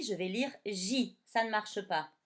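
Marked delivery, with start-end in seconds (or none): 0.0-1.2 lire said slowly and clearly; 「lire」をゆっくり強調; slow explaining. Shown as a demonstration. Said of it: "Mais si j'écris un G et un I".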